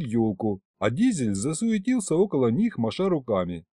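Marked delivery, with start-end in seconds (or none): none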